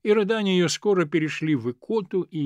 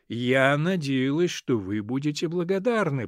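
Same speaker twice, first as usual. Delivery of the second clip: rehearsed speech. Acted. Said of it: "и тоном, который доказывал, что речь её была приготовлена заблаговременно".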